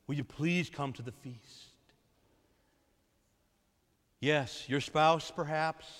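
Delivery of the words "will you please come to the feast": gentle plea. Acted. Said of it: "the Father's pleading".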